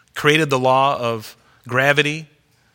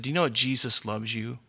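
tender; 5 dB quieter than usual. Retold or imitated. Daughter tenderly telling the cashier Jesus loves her, softly. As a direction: say it softly to comfort a stranger. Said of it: "she said it real tenderly like that".

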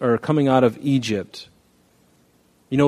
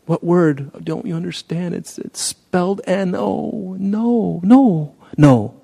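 exasperated parent; 7 semitones higher, slower than usual. Retold or imitated.

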